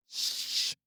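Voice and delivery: unvoiced sharp shush. A narrator's reading. Tarki hushes Aya while freeing her. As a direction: hush her urgently, breath only. Hushing during rescue.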